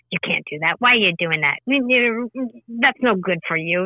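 낮고 조용하게 깎아내리는 마음의 목소리; negative inner voice. Retold or imitated. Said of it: "One has more of a negative context".

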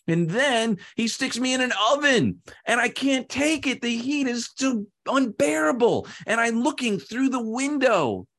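high-pitched, hammed-up agony; anguished clay. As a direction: wail out the ordeal in a high pitch. Clay suffers in the oven.

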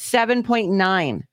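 drawn out, every number spaced; slow correction. Real, not acted. Correcting his cohost's wrong number, slow and deliberate. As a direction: lay out the correct figure slowly.

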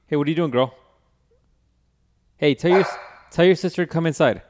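talking to the dog. Real, not acted.

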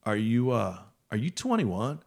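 lightly voiced laid-back stoner; a hint of stoner hesitation; Spicoli. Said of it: "imagine a Spicoli voice".

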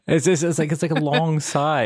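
laughing while explaining; giggling through the words. Real, not acted. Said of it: "What does it sound like".

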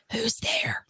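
retold whisper. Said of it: "Like, whispering".

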